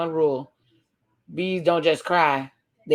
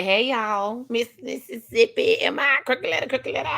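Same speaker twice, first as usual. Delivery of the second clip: higher-pitched, lightly acted greeting; Keisha's greeting; 7 semitones higher than usual. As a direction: lightly voice her high, rising hello. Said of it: "Keisha say".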